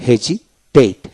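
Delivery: হেজিটেট in slow pieces, s voiced as j; S pronounced as Z. Shown as a demonstration. Teacher after the S rule, হেজিটেট slowly with a j sound. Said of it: "এস এর উচ্চারণ জ হয়".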